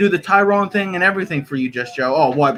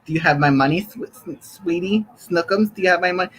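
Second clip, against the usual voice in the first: mock Tyrone voice. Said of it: "Did I talk like this?".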